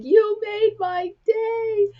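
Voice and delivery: mock-tearful wail, high and drawn out; retold tearful gratitude. Girl at the drive-through window bursts into tears, retold high tearful wail. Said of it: "she burst into tears".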